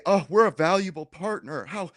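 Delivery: imitating a huffy, indignant reply; mock indignant. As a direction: play the wounded partner, half-hearted. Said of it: "they get all indignant".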